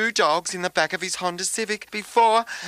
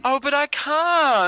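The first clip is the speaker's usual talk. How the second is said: whining despair; 7 semitones higher, 4 dB louder, slower than usual. Acted. Despairing protest.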